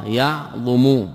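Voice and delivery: يعظم drawn out slowly as the pattern example; slow model verb. Shown as a demonstration. Teacher giving the parallel verb pattern, slowly drawn out. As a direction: stretch يعظم to show the matching vowels. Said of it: "مثل عظم".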